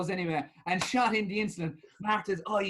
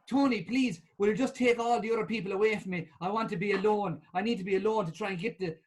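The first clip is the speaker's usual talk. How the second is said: pleading panda; 3 semitones higher than usual. Acted. Martha pleading to be alone.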